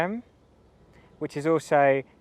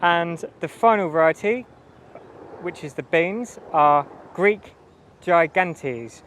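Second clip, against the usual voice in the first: raised voice over a loud noise; projecting louder to be heard; yelling over helicopter; 3 semitones higher, 4 dB louder than usual. Real, not acted. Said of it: "Excuse the helicopter".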